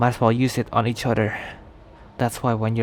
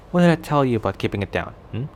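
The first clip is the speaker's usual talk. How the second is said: mild scolding; 5 dB louder, faster than usual. Acted. Scolding listener for making noise.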